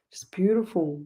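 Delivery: soft whispered praise. Real, not acted. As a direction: breathe it out, moved. Tender comment on kind nurse.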